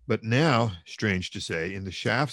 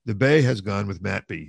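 loud complaint from the cart; shouted; 7 dB louder than usual. Acted. Mikolka complaining to his mates from the cart, loud shout. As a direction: call it across the crowd, loud. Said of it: "he shouted from the cart".

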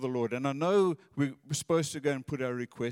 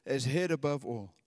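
prayerful scripture reading. Acted. Preacher reading scripture aloud to the congregation, reverent.

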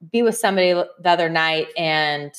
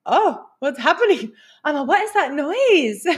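retold alarm; 7 semitones higher than usual. Acting out her alarmed reaction.

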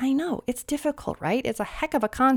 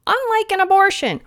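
emphatic jab; 10 semitones higher, 6 dB louder than usual. Acted.

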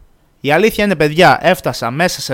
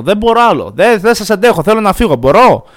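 higher, louder, fed-up pleading; exasperated plea; 5 semitones higher, 4 dB louder than usual. Retold or imitated. To the gate agent offering water, a loud mock-desperate plea. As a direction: beg to be let go, at the end of your rope.

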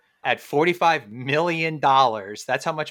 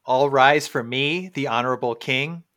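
town crier; 5 dB louder than usual. Acted. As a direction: announce it like a herald at court. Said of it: "the King's Court".

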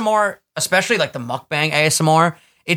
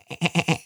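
goat impression; 3 semitones higher, 5 dB quieter than usual. Shown as a demonstration. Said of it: "That was my goat impression".

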